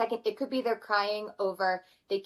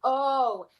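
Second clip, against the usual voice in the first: put-on higher small-boy "oh, oh"; imitating little son; 4 semitones higher, 3 dB louder than usual. Five-year-old son realising mama is upset, lightly mimicked child voice. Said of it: "he's like".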